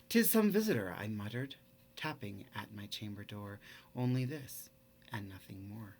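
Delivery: savoring the trochaic rhythm; poem reading. Shown as a demonstration. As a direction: read it like a dark old poem, beat by beat. Teacher reads Poe poem aloud.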